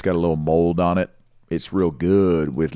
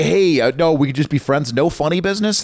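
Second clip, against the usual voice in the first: higher, protesting innocence; mock-innocent reassurance; 7 semitones higher than usual. Telling ladies he just wants friendship, higher mock-innocent voice. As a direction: insist you mean nothing by it, pitched up.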